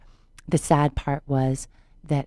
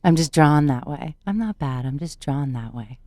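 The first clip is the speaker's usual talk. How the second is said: a light hint of the sultry cartoon vamp; Jessica Rabbit line; 2 semitones lower than usual. Quoting the cartoon vamp to the host, lightly sultry. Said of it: "because Jessica Rabbit".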